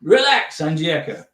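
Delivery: attempted South African accent, near Australian. Shown as a demonstration. Telling Angieka to relax in a rough South African accent. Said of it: "It's kinda Australian".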